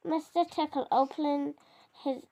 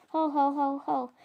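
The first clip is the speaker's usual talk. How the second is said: booming ho-ho laugh. Acted. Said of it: "boomed the dragon".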